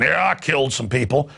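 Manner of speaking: mock locker-room boast. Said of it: "be in the locker room".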